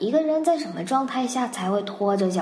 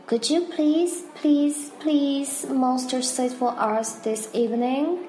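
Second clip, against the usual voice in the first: eager pleading; 6 semitones higher than usual. Shown as a demonstration. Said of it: "再重复一下这个句子".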